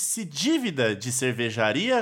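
deliberate headline reading, last words drawn out; news headline read. Real, not acted. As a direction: announce the headline, stretching its ending. Reads a headline aloud.

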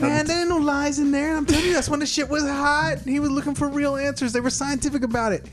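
lightly put-on street voice. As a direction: talk it like a slight street tough. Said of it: "you went to your street voice".

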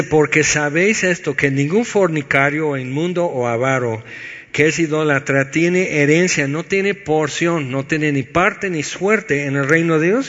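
measured, weighty reading of the verse; scripture reading. Acted. Preacher reading a warning verse to the congregation, grave and measured.

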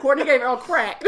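laughing through a mock headline. Real, not acted. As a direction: giggle out the words. Joking mock rumor.

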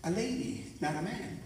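a hint of a child's questioning voice; little daughter. Young daughter asking Dad about the song, lightly imitated child. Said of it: "she turns to me and says".

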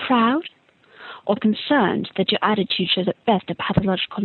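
lightly voiced prying reporter, deliberate pauses between questions; Rita Skeeter. Reporter needling a boy of twelve before the tournament, lightly theatrical. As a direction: dramatize each phrase like a tabloid interviewer, mildly. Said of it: "this is my impression of Rita Skeeter".

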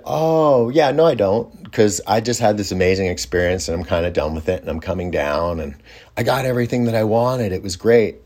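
high, light polite brush-off; a hint of an airy no thanks; breezy brush-off. Retelling his reply to the host.

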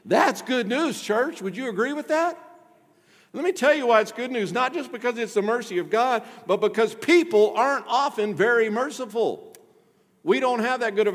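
fired-up sermon climax; preaching at full force. Real, not acted. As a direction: rouse the congregation with good news.

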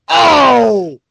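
excited oh. Real, not acted. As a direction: blurt it out, thrilled. Reveal of Reed Richards.

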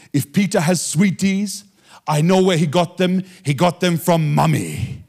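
slow, deliberate imitated storytelling; Reinhard Bonnke. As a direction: play the evangelist working it out, slowly. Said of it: "So he said".

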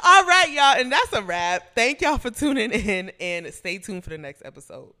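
shouted sign-off; loud outro. Real, not acted. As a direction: yell the goodbye to the audience.

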